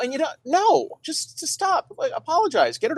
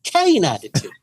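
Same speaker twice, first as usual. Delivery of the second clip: radio announcer voice; 2 semitones lower than usual. Shown as a demonstration. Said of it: "I can do it".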